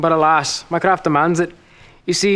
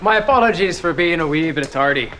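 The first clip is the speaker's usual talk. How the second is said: put-on Scottish accent. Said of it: "that ridiculous accent".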